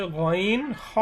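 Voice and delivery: "গইন হ" from the end of the throat; upper-throat articulation. Shown as a demonstration. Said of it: "কণ্ঠনালীর শেষ ভাগ হইতে". (কণ্ঠনালীর শেষ ভাগ থেকে "গইন হ")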